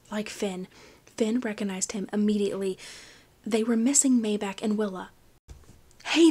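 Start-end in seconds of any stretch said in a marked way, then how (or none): 6.0-6.3 a rough, loud hail from afar; gruff call. A narrator's reading. Pirate hailing Finn, gruff call. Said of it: "a gruff voice called out".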